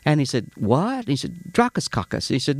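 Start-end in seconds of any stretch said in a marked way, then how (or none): 0.5-1.0 high puzzled "What?". Retold or imitated. Clerk baffled by the customer's odd request, high puzzled question. 1.5-2.3 "Dracaskakis" run together as one Greek-sounding word, high; Greek accent. Retold or imitated. Greek customer repeating his order to the deli clerk, Greek accent. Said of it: "It was a Greek guy".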